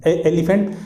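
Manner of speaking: "एलिफेंट" as eh-li-fent; mistaken elephant. Shown as a demonstration. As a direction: open "एलिफेंट" on a clear eh, middle i kept. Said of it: "समझिए गलत बोल जा रहे हैं".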